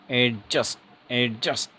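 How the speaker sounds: 'एडजस्ट' with the d left silent. Shown as a demonstration. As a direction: model 'एडजस्ट' going straight to the j. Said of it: "डी silent है".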